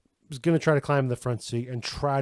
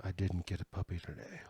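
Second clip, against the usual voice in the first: mock pouting; 5 semitones lower, 11 dB quieter than usual. Partner pouting over missing puppy.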